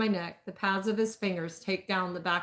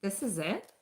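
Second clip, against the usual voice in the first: whining; 5 dB quieter than usual. A narrator's reading.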